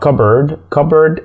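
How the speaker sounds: "cupboard" said as "kubberd"; silent P. Shown as a demonstration. Teacher giving the example word, "cupboard" as "kubberd". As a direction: drop the p in "cupboard", only a b. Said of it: "هنا مش بننطق حرف ال P".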